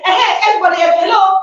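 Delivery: bright forced hello to everyone; masking pain with a loud cheery hello; fake cheerful greeting. Speaker imitating her masked self greeting everyone, forced cheer.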